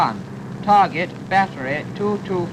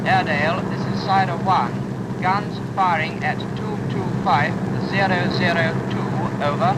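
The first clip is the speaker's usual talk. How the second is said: tinny voice over a radio set; as if heard through a field radio; crackly military radio. Acted. Aircraft reporting over the radio.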